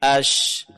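"ash" hushed and held; shin with sukun. Shown as a demonstration. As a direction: let the "ash" run on. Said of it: "huruf shin".

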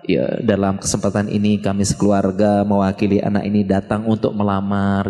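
a hint of ceremonial spokesman, slowing at the end; family representative. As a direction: speak low and measured, as a family's delegate. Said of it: "perwakilan keluarga".

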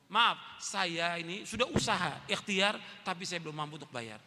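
soft, apologetic plea, fading away; humble apology. Pretend. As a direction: beg forgiveness quietly and sheepishly.

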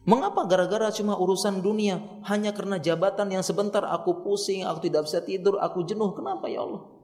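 acted plaintive complaint; pleading to God. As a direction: appeal to God with troubled questions. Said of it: "Diadukan pada Allah".

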